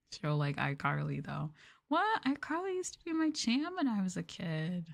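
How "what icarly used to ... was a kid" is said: high-pitched, excited exclamation; excited outburst. Real, not acted. Fan recalls a favorite childhood show, excited and high. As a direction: pitch leaps up in delighted disbelief.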